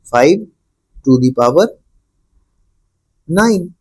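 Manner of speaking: "फ़ाइव", pause, "to the power", long pause, "नाइन"; read out in parts. Shown as a demonstration. Teacher answering how to read the exponent, in separated parts. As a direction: spell out the reading piece by piece, holding back "नाइन". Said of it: "तो क्या पढ़ोगे इसको?".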